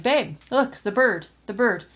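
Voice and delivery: a bird chirping up high, urgent and light; lightly voiced bird nudging its owner; a little bird trying to get your attention; bird calling out. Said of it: "the bird on the windowsill is like".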